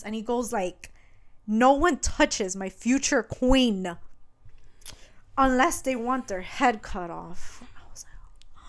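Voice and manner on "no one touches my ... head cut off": slow, deliberate mock decree; commanding. Wounded prince warns guards off his future queen, slow retold command. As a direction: lay down a threat word by word.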